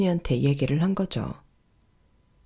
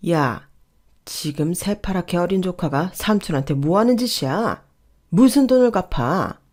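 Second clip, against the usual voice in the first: scolding rebuke. Acted. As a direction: tell off the young upstart, building to indignation. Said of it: "남편은 호통치며". (점점 높아지는 호통)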